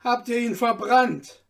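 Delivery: insistent loud cross-examination; impatient interrogation. A narrator's reading. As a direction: demand an answer forcefully. Slave interrogates the tailor.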